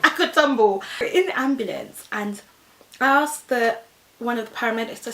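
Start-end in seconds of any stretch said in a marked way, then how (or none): 0.0-0.8 laughing through the words; high, giggly boast; mocking past self. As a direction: giggle at your own foolish confidence. Mimicking own foolish thought, laughing.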